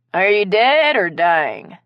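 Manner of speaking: slow, drowsy question; sleepy. Acted. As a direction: ask it half asleep. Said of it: "Carrie asked sleepily".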